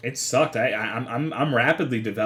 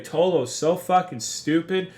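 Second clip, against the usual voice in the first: mimicking irate viewers, higher and drawn out; exasperated mock complaint in a raised pitch; mock angry chat; 6 semitones higher than usual. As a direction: imitate an outraged chat, slow and higher-pitched. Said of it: "his chat was so fucking mad at me".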